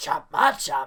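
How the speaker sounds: loud, belted-out monster cry. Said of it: "I guess that's how you say".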